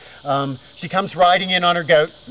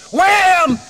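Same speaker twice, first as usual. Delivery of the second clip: a sudden loud high bang of a word; loud door slam; 8 dB louder than usual. Acted. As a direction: burst out with the slam. The door flying open.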